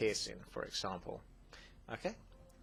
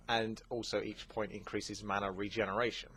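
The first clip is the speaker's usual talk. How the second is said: normal talking voice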